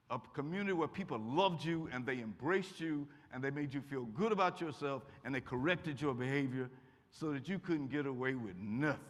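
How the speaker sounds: ordinary talk, nothing marked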